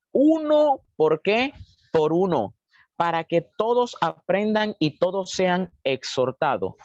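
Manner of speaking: slow, deliberate reading aloud; scripture reading. Acted. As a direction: read the verse out slowly to the congregation. Reads scripture aloud to congregation. (lectura pausada de la Biblia)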